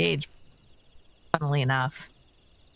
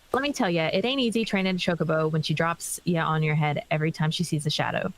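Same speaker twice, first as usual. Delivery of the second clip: lightly voiced gruff stable keeper; a hint of a rural English chocobo trainer; rustic NPC voice. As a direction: read it like a folksy farmhand. NPC quest dialogue.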